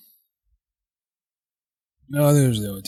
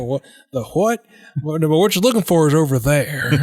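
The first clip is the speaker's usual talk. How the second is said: put-on higher, puzzled old Southern man; 4 semitones higher than usual. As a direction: play a confused old ghost soldier. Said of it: "do your old man Southern voice now".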